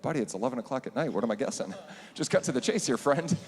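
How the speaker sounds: fast, laughing mock impatience rising high; amused exasperation. Teacher answering student's late call, laughing mock impatience. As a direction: tease him, laughing through it.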